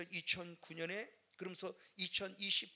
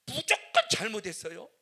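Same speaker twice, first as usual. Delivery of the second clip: loud, pleading prayer rising higher; a pastor crying out in repentance; fervent repentance; 4 semitones higher, 9 dB louder than usual. Retold or imitated. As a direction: beg forgiveness with full force.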